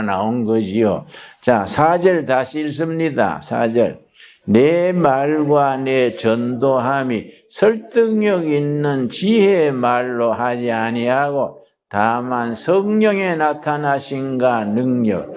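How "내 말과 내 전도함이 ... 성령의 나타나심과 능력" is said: 천천히 또박또박 성경을 읽듯; 회중 앞에서 본문을 천천히 낭독하듯. Acted. (천천히 읽는 성경 낭독)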